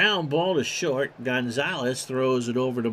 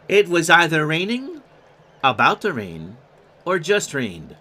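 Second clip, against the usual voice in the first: put-on a light, half-hearted Irish accent for the grandfather; hint of an Irish brogue, only lightly put on; bad Irish accent; 5 dB louder than usual. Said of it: "Kinda like my bad Irish accent".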